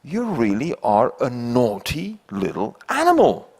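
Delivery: chuckling as the owl scolds fondly; amused owl. Acted. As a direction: laugh through a mock telling-off. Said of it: "And the owl says".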